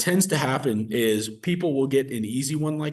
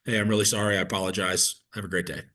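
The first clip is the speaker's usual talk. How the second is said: polite apology; 4 semitones lower than usual. Shown as a demonstration. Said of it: "end the call quickly and politely".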